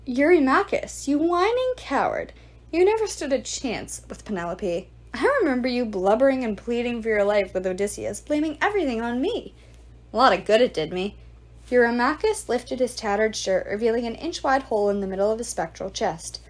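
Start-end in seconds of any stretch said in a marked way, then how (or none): 0.0-11.1 contemptuous, sneering jeer; mock a coward with scorn; lightly voiced sneering ghoul. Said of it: "Antinous sneered".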